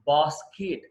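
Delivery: బాస్కెట్ as "baas-kit"; short "-it" ending. Shown as a demonstration. Teacher modelling for learners, బాస్కెట్ as "baas-kit". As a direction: weaken the second vowel of బాస్కెట్ to i. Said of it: "బాస్కెట్ కాదు".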